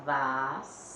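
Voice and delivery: "vassoura" with a long held S, then pauses; split into syllables. Shown as a demonstration. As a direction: break "vassoura" apart as vas, sou, ra. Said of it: "Então, vai ficar".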